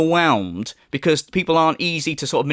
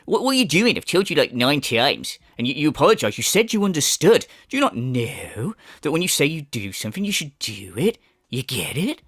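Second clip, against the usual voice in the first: mock parental scolding, sinking lower; telling off a child; 5 semitones lower than usual. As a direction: lightly imitate someone lecturing a child. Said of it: "Like he's telling off a child".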